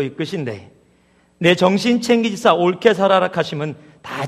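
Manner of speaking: imitated Gyeongsang accent, reading with gusto; Gyeongsang dialect. Preacher reading Psalm 23 to the congregation, in Gyeongsang dialect. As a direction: read it out in an amateur Gyeongsang dialect. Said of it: "경상도 버전입니다".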